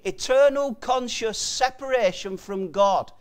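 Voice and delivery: forceful preaching with weight on "conscious"; stress on conscious. Real, not acted. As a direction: lean firmly on "conscious". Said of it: "I'm emphasizing the word conscious".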